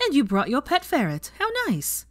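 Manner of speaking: high, sweetly sarcastic jab. A narrator's reading. Ginny mocking Hermione's ferret, sarcastic sweetness. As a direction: needle her with fake delight.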